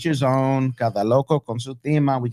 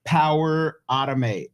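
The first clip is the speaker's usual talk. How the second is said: slower, spaced-out product name; repeated clearly; slower than usual. Real, not acted. Repeating a software name for a co-host, slowly and clearly. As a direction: say it slowly so they catch it. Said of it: "Wait, say it again?".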